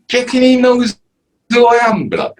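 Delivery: very high-pitched imitation; mock eager question. Interviewee replaying his question to friends about being recognised, high mock voice.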